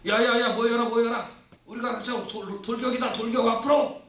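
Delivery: high, eager call to charge; rallying battle cry. Retold or imitated. Israelites calling each other to charge uphill, high rallying cry. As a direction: rouse the troops, pitched high and urgent.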